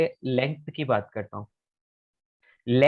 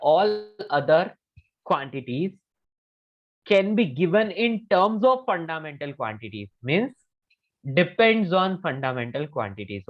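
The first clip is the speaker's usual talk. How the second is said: slow repeat for student; much slower than usual. Shown as a demonstration. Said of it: "sir, एक बार repeat करो तो all वाला".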